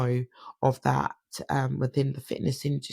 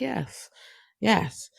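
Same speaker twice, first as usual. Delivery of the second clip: pitched way up, meek yes yes; high squeaky yes; 8 semitones higher than usual. Retold or imitated.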